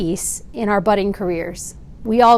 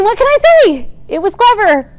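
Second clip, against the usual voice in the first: wry; 11 semitones higher, 8 dB louder than usual. Real, not acted. Amused mock concession.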